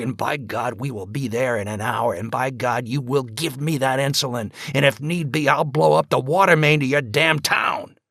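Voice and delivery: loud, raging ultimatum; angry threat. Acted. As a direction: threaten him with everything you have. Father threatens doctor over insulin.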